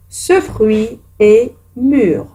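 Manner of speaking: each word drawn out for pupils to copy; a teacher's slow dictation. Shown as a demonstration. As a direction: read it slowly like a dictation. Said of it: "dictates the exercise sentence".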